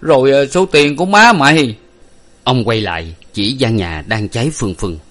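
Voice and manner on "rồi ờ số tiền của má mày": faltering, loud and high; stammering. A narrator's reading. Father asks after his wife's money, stammering. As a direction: stumble over the question, agitated. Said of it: "Ông Năm lắp bắp".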